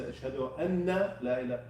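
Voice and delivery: "أشهد أن لا إله" stopping short after "إله"; wrong cut-off. Shown as a demonstration. Teacher imitates a mistaken adhan phrase. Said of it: "No, that's a mistake".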